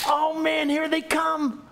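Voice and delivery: pitched high with glee; light up as they walk in; eager high oh man; excited greeting. Retold or imitated. Excited at friends coming.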